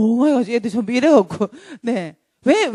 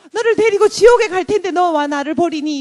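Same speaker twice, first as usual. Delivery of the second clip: hammed-up devil's protest, raised pitch; Satan crying out; 4 semitones higher, 4 dB louder than usual. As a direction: protest as a jilted devil, higher voice. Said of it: "사탄이 막 소리를 질러요". (버림받은 사탄의 과장된 원망 연기)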